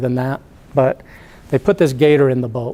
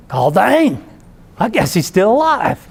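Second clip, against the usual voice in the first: high, hammed-up Florida redneck punchline; 7 semitones higher, 3 dB louder than usual. Bubba sees the gator go wild, high Florida redneck exclamation. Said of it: "talking like a total ... Florida redneck".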